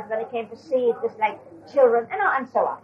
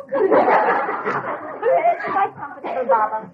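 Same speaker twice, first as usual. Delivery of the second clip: embarrassed laughing reply; 9 semitones higher, much slower than usual. Retold or imitated. Embarrassed Norina answers Baba.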